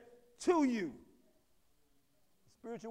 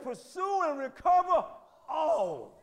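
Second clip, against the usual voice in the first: God's command; 3 semitones higher, 5 dB louder, slower than usual. Retold or imitated. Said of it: "He said".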